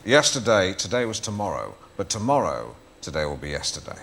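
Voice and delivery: lightly voiced Alan Partridge; a hint of the Alan voice. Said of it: "you can't do it in your voice".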